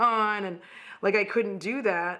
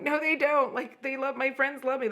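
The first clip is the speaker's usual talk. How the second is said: defensive protest; 6 semitones higher than usual. Retold or imitated. Arguing back with her own mind.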